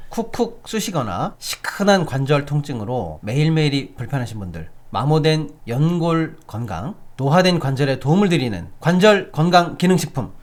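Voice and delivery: upbeat sales pitch read; hard sell ad. Acted. Reads a live ad.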